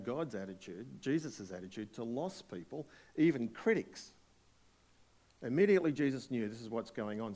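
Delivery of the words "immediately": emphatic. Real, not acted. Preacher stressing word.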